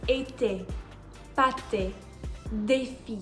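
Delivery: été, pâté, défi said carefully; French pronunciation. Shown as a demonstration. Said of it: "For example".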